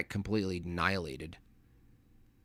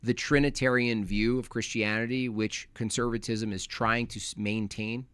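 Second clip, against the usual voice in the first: mock questioner; 2 semitones higher than usual. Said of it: "They're like".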